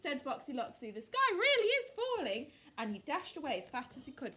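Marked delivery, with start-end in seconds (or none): 0.9-2.5 loud, raised, amazed cry; alarmed villain; panicked fox. Acted. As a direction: wail it in sudden belief.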